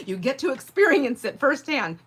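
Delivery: high, loud laugh running into the words. Real, not acted. Laughing at how judgment backfires. Laughing at her own judginess.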